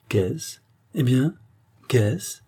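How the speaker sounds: rising, lightly high-pitched query; haughty lady. Acted. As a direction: inquire from on high, voice lifting. Haughty lady questioning the scene. (dame hautaine, question montante)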